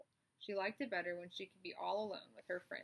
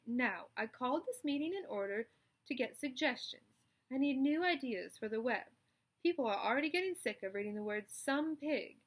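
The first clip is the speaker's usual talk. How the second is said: raised, louder spider voice; spider's speech; 4 semitones higher, 5 dB louder than usual. Acted. Charlotte explains her trick to the animals, confident. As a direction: address the barn like a chairwoman.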